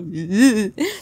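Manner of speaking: uneasy cringing laugh; laughing, losing composure. Real, not acted. Creator can't keep a straight face, cringing laugh. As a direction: laugh in disbelief at the script. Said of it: "can't even read this with a straight face".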